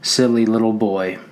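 measured dramatic reading of a novel; story narration. A narrator's reading. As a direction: read it like an audiobook, letting the tempter's lines coil. Reads novel aloud with voiced characters.

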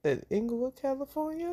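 high, rising mock-incredulous echo; mock surprise. Host echoing her co-host's hometown news in mock disbelief. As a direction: echo it back like you can't believe it.

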